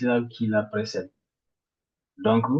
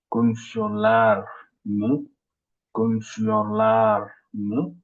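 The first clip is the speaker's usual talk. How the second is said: Konuşuyorlar mı slowly, weight on the syllable before mı; stress before mı; slower than usual. Shown as a demonstration. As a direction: lift into mı with a slow rise. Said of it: "l'accent tonique sur". (accent tonique avant mı, lentement)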